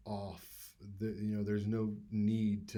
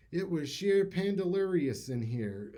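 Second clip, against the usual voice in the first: higher, lightly voiced boxer interview; a hint of Mike Tyson after a fight; Mike Tyson impression; 7 semitones higher, 3 dB louder than usual. Mike Tyson giving a post-fight interview, lightly imitated. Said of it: "Mike Tyson used to give interviews".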